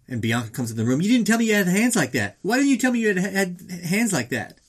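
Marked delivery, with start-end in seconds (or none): 1.0-4.6 high, raised-voice amazement; acted astonished outburst; excited exclamation. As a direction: blurt it out high, stretching the end. Acts Bianca excitedly confronting boxer.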